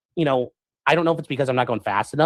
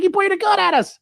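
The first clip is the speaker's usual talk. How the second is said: giggling; 14 semitones higher than usual. Retold or imitated. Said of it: "she's all giggling about it".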